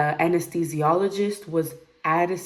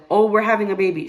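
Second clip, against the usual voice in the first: tag; 4 semitones higher, 8 dB louder, faster than usual. Retold or imitated. Acting the doctor's announcement.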